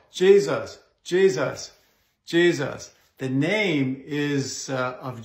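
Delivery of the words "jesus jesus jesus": Jesus called out forcefully, each one stressed; forceful commanding call. Shown as a demonstration. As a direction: proclaim Jesus firmly, one after another. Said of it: "we said it all the more".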